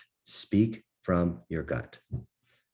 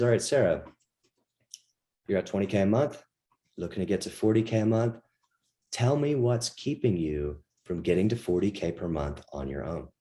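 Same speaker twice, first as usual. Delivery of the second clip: fast visual talk. Shown as a demonstration. Coach demos the pushy visual style to students. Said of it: "this is fast, like, visual type language".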